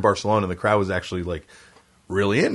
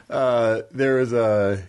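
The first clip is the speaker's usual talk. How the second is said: normal talking voice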